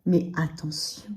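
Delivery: hushed, slow whisper; whispered warning. Real, not acted. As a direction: whisper the caution softly. Intimate warning to the listener.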